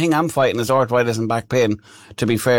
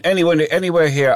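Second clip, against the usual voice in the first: a touch higher, pressing the driver; insistent repeat; 5 semitones higher than usual. Retold or imitated. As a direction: repeat it, pushing a little harder. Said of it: "And I went".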